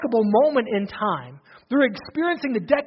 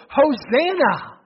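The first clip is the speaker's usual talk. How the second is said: retold shout; 4 semitones higher, much slower than usual. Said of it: "and they shouted".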